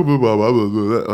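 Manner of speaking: lightly imitated baby-talk babble; mock baby voice. Co-host mimicking how people speak to their children, mock baby voice. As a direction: babble mockingly like someone cooing at a baby. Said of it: "there's baby voices".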